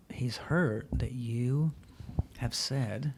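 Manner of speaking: soft whispered telling-off with no anger; a father quietly whispering to his daughter about her brother's hurt; gentle whisper. Retold or imitated.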